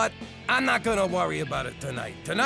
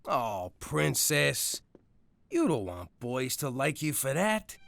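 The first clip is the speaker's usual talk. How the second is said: tender fatherly talk. Acted. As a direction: gently talk her out of it. Father comforts daughter.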